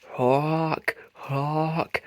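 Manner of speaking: high spooky hawk cry; scary bird call. A narrator's reading. Spud scaring Muck with a hawk call. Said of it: "Spud called, making another scary sound".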